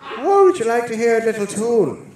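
high, giggly showman voice; high goofy voice. Acted. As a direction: pitch it up like a cheesy host. Silly announcer voice.

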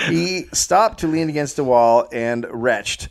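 measured, read-aloud storyteller delivery; story narration. A narrator's reading. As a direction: narrate the tale from the page.

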